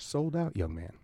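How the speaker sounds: loosely attempted British accent; a half-hearted British older performer. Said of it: "I can't do the accent".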